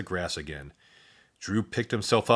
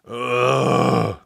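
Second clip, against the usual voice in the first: groan; 2 semitones higher, 5 dB louder than usual. A narrator's reading. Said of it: "groaned Rufus".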